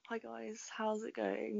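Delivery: hushed, airy spiritual guru greeting; soft and dreamy, like a medium; spiritualist voice. Pretend. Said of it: "Why do you sound like a spiritualist?".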